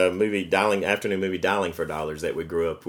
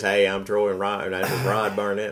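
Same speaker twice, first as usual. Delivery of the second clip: mock Southern parody. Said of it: "their parodies of us must sound like".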